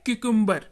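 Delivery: क्यूकम्बर said clearly, stressed on कम; careful pronunciation. Shown as a demonstration. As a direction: model क्यूकम्बर for learners, falling at the end. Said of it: "आराम से सुनिएगा".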